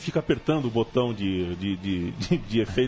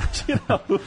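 laughing; 9 semitones higher than usual. Retold or imitated.

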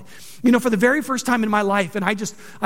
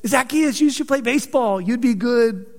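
mocking jokester. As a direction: lightly needle him like a schoolyard tease. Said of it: "they probably mocked him".

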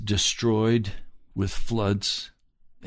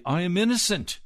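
mock innocence; 9 semitones higher than usual. Mocking the self-righteous claim.

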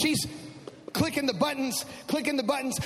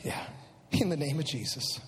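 much lower, hushed; low and quiet; 9 semitones lower, 8 dB quieter than usual. Shown as a demonstration. Father at the incubator, hushed and low. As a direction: say it under your breath, low. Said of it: "'Cause I don't want to be arrested".

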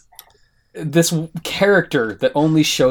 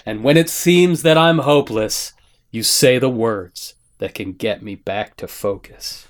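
recited song lyrics; 6 semitones lower than usual. Acted. Host winds down the lyric tribute into the intro, spoken recital. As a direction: let the recited verse sink low and hushed.

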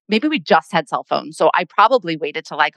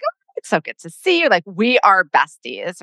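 chummy dentist. Retold or imitated. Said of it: "He's like".

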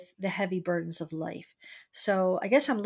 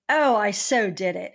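triumphant cheer; 7 dB louder than usual. Retold or imitated. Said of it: "I went".

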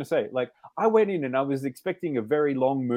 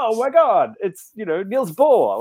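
higher, louder excited exclamation; delighted recognition; 6 semitones higher, 6 dB louder, slower than usual. Retold or imitated. Viewer spotting physics references on screen, excited. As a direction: geek out at a famous name. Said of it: "which was just like".

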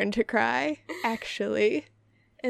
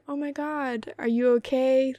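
concerned dog. Acted. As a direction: play a dog gently checking on its owner. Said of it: "they'll be like".

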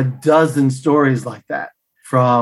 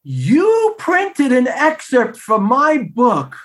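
put-on high, slow, amazed Italian-accented exclamation; gasp, then marvel in an Italian accent; imitating a delighted Italian author; delighted Italian man; 10 semitones higher, much slower than usual. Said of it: "he was just so delighted".

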